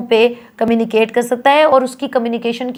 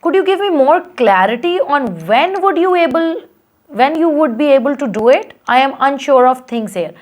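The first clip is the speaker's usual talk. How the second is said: client asking again; 3 semitones higher, much slower than usual. Shown as a demonstration. Teacher voicing a pressing client.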